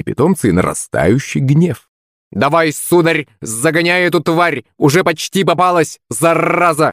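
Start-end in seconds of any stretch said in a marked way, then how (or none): 2.3-6.9 cheering parrot. Acted. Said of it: "подбадривал Кузьму попугай".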